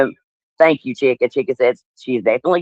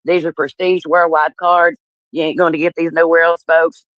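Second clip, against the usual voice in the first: lightly imitated pitchman, higher and slow; Mark; 5 semitones higher than usual. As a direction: parody a promoter talking up the merchandise. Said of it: "I said the stuff like he said".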